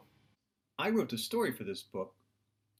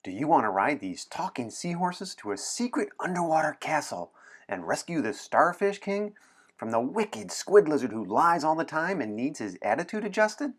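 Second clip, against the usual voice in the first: higher, eager run-on pitch; excited pitch; 4 semitones higher, 4 dB louder than usual. Acted. Anna pitching seahorse adventure to William, eager. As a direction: sell the adventure with big eager energy.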